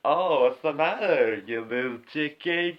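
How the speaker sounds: Tommy Wiseau taunt. Acted. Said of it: "Tommy Wiseau".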